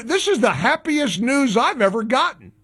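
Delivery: dry mock delight; sarcastic. Real, not acted. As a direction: pretend this is wonderful news. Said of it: "I was being sarcastic".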